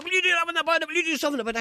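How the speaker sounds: high, loud retold shout of a drunk fisherman; mock drunk yell. Drunk fisherman in a pub yelling at the BBC man, loud mock shout. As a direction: bellow it like the man pinning him to the wall.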